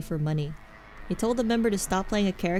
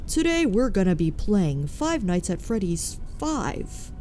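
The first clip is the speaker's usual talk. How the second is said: slow, proper clickbait narrator cadence; fake YouTuber voice; 2 semitones higher, slower than usual. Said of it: "the fake deepening of the voice with the really proper cadence".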